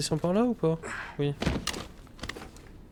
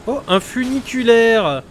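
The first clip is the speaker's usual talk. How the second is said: amazed; 5 semitones higher, 5 dB louder, much slower than usual. Real, not acted. Excited discovery.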